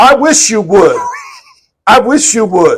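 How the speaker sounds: very loud, high voice. Speaker acts out an adult confronting a kid who talks back, loud voice. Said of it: "say in a loud voice".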